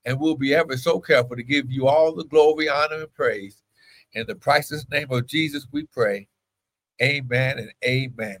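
steady, flowing petition to God; opening prayer. Real, not acted. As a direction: pray in a run of even, chant-like phrases.

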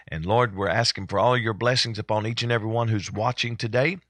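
earnest pastor's prayer. Acted. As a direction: pray it out with fervour.

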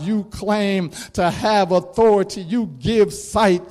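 a hint of a sneering mocker; mocking taunt. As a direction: taunt him like a passerby at the cross. Mockers taunting Jesus on cross.

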